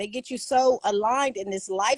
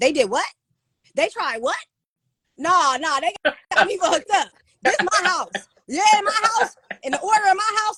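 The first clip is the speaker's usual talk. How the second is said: put-on high, angry, outraged father voice, ranting; 9 semitones higher, 4 dB louder than usual. Retelling how the father reacted once the mother talked to him, imitating an angry father. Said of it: "father's standing down to deliver that thunder".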